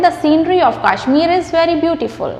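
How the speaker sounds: slow, careful example sentence; slow model sentence. Shown as a demonstration. Teacher giving students a model sentence, slowly. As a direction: read the example out slowly for learners. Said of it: "हमने बोलना है".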